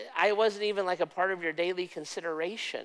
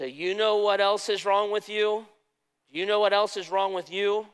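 scolding pastor; 5 semitones higher, 4 dB louder than usual. Retold or imitated. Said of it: "he would yell at us for an hour".

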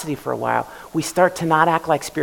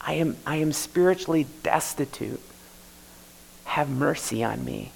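humble plea; 5 dB quieter than usual. Retold or imitated. Preacher voicing repentant sinner to God, soft plea. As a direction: pray it quietly from the knees. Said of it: "and say".

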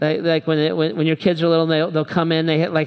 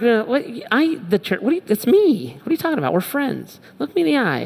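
incredulous friend; 6 semitones higher than usual. Retold or imitated. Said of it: "replying to friend".

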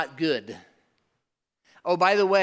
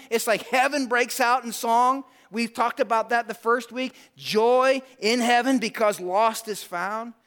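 raised, emphatic pulpit proclamation; fervent preaching; 8 semitones higher, 4 dB louder than usual. Acted. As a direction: preach it with building fervour, leaning on key words. Preaches worship with fervour.

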